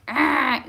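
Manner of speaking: short, mild imitation of an exasperated scream; mock angry growl. Mom showing how she didn't scream at kids, mock angry growl. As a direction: growl briefly in pretend frustration. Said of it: "I screamed at them and I was like".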